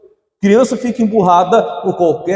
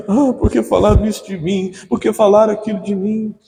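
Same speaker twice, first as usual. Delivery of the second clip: whiny complaint; 6 semitones higher than usual. Acted. Immature believer complaining voiced.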